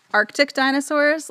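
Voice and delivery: high gushing squeal on "Arctic dinosaurs"; delighted squeal. Real, not acted.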